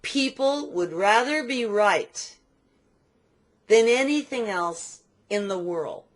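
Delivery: spaced-out, emphatic maxim; profound pronouncement. Real, not acted. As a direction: deliver it slowly as a profound truth. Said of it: "This is profound".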